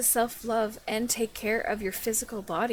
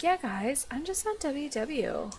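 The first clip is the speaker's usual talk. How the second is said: mock casual denial; 2 semitones higher, slower than usual. Critic mimicking vlogger's weight-loss excuse, mock casual. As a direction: imitate a vlogger brushing it off. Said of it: "And you're like".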